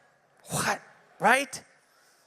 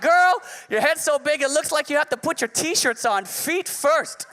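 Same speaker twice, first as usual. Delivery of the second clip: sassy roast; 5 semitones higher than usual. Retold or imitated. Dad reads his second roast comment to the bully, high sassy burn. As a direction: sneer it out like a roast battle.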